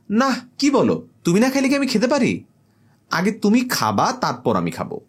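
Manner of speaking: high, mock-devoted girlfriend; a hint of a clingy girlfriend fussing over dinner; girl's voice. Girl overdoes devotion.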